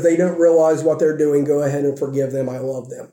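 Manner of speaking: a tender hush. Acted. With love and says.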